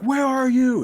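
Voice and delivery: imitating panicked criminals. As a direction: call out like a scared thug at the docks. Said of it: "when they're like".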